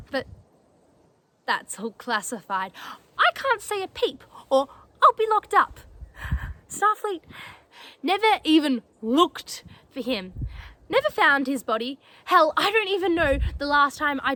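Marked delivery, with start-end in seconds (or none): 3.2-10.3 suddenly higher, agitated protest; frustrated, high-pitched outburst; bitter exasperation. Acted. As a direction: burst out at the injustice, pitch jumping up. Bitter about cover-up of father's death.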